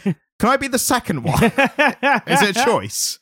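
high, giggling question; laughing. Acted. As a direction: laugh through the eager ask. Joking wish, laughing.

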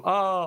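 short mock battle cry Ah; a hammed-up little war cry; mock Spartacus yell. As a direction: imitate the hero's yell. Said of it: "då skriker han liksom".

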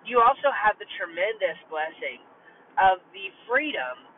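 poor car mic audio. Real, not acted. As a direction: sound like a cheap mic in a car. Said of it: "it was coming through the mic on my car".

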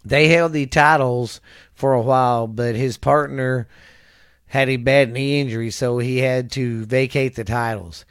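projected, deliberate read-out voice; reading aloud. Real, not acted. Reading a wrestler's career history to a listener, reading aloud. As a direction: read it out like a biography report.

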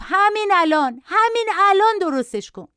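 high-pitched bratty demand; mock yelling. A narrator's reading. Boy demanding a repair from his mother, mock yelling. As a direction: insist like a yelling child, volume held back. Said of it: "بچه با فریاد گفت".

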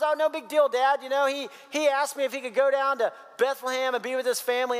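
offhand mock reassurance; casual excuse. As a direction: play it down to your dad, pitch up. Acted Jonathan excusing David to father.

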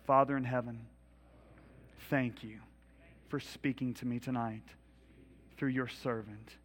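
slow, earnest prayer over music, fading to a hush at amen; led prayer. Acted. Pastor leading the congregation in a repeat-after-me prayer, slow and earnest. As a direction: pray it line by line for the room to repeat.

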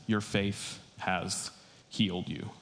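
slow, soft, tender pronouncement; tender blessing. Retold or imitated. Jesus softly blesses the healed woman, slow and tender. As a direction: bless her quietly and slowly.

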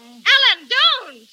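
loud, high alarmed cry. Acted. Girl cries out as he jumps from the window. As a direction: stop him before he jumps.

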